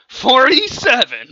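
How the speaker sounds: high, loud, drawn-out number; shouted count. Acted. Contestant in the baby off, shouted count. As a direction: call out the score.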